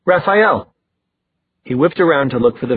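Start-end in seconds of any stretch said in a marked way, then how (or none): 0.0-0.7 high, urgent call; voice rising. A narrator's reading. Simon calling for the vanished vampire, voice rising. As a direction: call out, pitch jumping up. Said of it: "his voice rising".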